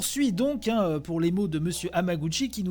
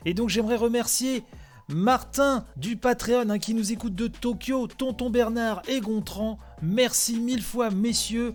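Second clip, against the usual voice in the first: higher, lively list of thanks; upbeat shout-out; 4 semitones higher than usual. Real, not acted. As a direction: call each name out cheerfully. Reads out thanks to supporters.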